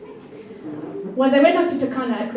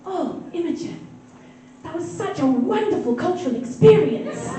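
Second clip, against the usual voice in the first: acting out an earnest, impressed mom; mom's gushing praise; 2 semitones higher than usual. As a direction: put on mom's delighted, wonder-struck voice. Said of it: "she'll turn to me and she'll say".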